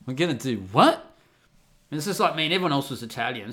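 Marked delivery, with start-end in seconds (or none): 0.1-1.1 incredulous. Retold or imitated. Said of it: "And we're all like".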